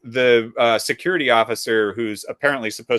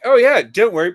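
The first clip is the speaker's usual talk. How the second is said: imitating the officer; 7 semitones higher, 9 dB louder than usual. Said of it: "he's like".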